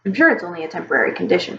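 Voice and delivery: fast, forced cheer; overly hearty. Acted. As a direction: cover the worry with fake heartiness. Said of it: "he said with an overly hearty voice".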